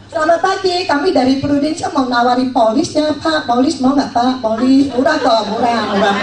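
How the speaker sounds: overeager agent pushing a cheap policy; pushy salesman pitch. Retold or imitated. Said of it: "Begitu datang".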